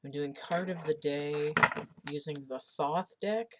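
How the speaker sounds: rising questioning tune at the end. Real, not acted. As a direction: accidentally lift it into a question. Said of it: "I said that like a question".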